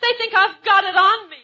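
put-on loud, breathless gangster's girl; urgent moll pleading for help; gun moll voice.

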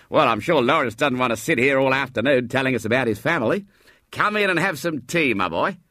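put-on genial old man. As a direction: welcome the boy warmly.

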